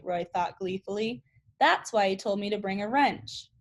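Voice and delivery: read-aloud chapter voice; reading a chapter book aloud to students; story narration. A narrator's reading. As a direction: read the novel to the class, steady and clear. Teacher reads novel aloud.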